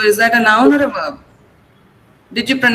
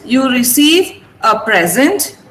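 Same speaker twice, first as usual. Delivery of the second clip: slowly, with PRE stressed in present; slow example, noun present stressed up front; first-syllable stress; slower than usual. Shown as a demonstration. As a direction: present as PREZ-ent. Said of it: "I'm stressing pre".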